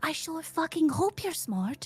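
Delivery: kept-down, hushed voice. After being asked to keep their voice down, repeating the line in a quieter voice. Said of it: "Sorry, sorry. sorry".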